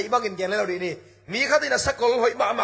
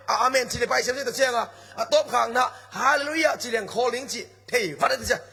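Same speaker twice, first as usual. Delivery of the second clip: preaching at full force; 2 semitones higher, faster than usual. Acted. Calls out hallelujah.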